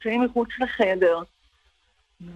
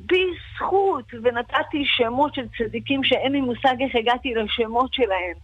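retold fervent prayer; 3 semitones higher than usual. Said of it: "ואמרתי".

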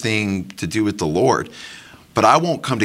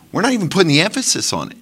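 rising preaching fervor; 5 semitones higher, faster than usual. Real, not acted. Building rebuke in teaching.

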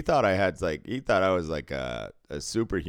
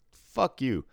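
higher, falling mock disbelief; playful cursing; 6 semitones higher than usual. Imitating customer amazed by a shared hometown, playful disbelief. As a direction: toss it out as friendly, imitated disbelief. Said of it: "in a nice way".

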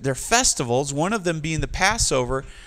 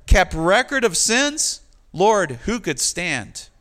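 pleading; 2 semitones higher, 3 dB louder, slower than usual. Acted. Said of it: "in verse three you say".

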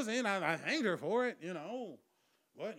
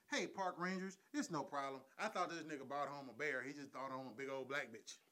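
hushed phone call; 5 semitones lower, 10 dB quieter than usual. Retold or imitated.

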